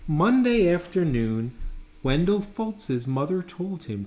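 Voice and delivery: put-on lively read-aloud for kids; animated storyteller voice; storybook reading. A narrator's reading. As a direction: tell it like a bedtime picture book. Reads picture book aloud.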